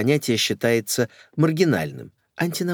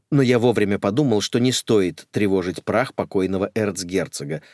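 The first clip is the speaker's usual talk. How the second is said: ordinary delivery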